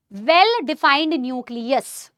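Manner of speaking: very slow, drawn-out words; slow dictation. Shown as a demonstration. Teacher dictates a phrase for students' notes, slow. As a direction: dictate it word by word. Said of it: "ma'am लिखना है क्या".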